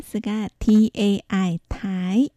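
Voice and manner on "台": 台 with aspirated t and rising second tone; second-tone pinyin tai. Shown as a demonstration. Teacher models 台 for learners, aspirated rising tone. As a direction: say 台 rising, with a puff on the t. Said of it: "有機音二声".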